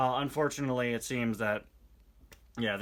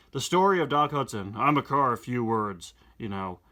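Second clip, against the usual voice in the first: louder reading as Doc; lightly voiced Doc Hudson; Doc Hudson's page; 5 dB louder than usual. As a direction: introduce yourself like the old champion.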